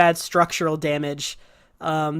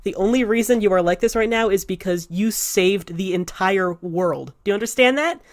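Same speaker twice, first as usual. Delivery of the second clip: earnest pep talk. Acted. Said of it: "he says".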